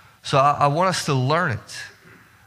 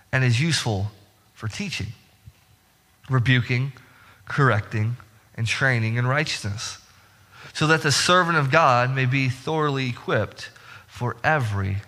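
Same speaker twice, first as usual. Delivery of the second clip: reading scripture aloud; 3 semitones lower than usual. Shown as a demonstration. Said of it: "I love what Paul writes … and he says this".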